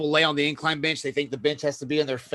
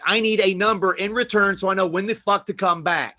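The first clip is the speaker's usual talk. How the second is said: louder, higher irritated rant at a gym member; angry rant; 4 semitones higher, 5 dB louder than usual. Retold or imitated. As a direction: snap at the guy who won't give a number. Retold gym argument, angry.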